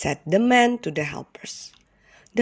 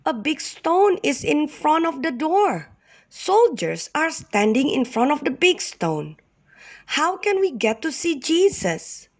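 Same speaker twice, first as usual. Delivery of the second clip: worried woman; 9 semitones higher than usual. Acted. Woman worries about the stone.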